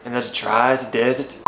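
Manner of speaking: attempted Norwegian accent, read aloud. Shown as a demonstration. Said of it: "which was a Norwegian accent".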